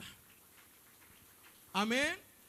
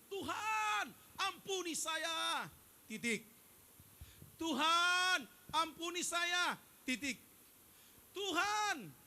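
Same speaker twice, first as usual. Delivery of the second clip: loud pleading cry to the Lord, clipped off after each plea; crying out to God; 4 semitones higher, 4 dB louder, much slower than usual. Retold or imitated. Preacher mocks Christians who cry out to God, loud pleading. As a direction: call out to God with each plea, then cut it short. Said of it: "berteriak kepada Tuhan begini".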